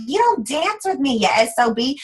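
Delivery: mock wifely complaint, pitch jumping up at first; a touch of put-on anger; imitated angry wife. Wife griping at her husband after twenty years, mock angry. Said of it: "angry after twenty years".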